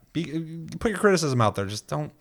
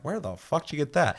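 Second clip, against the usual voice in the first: higher, mock baffled question; incredulous; 6 semitones higher than usual. Host mimics hearing his name mangled, incredulous. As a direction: play it like a weird name just stunned you. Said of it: "I'm like".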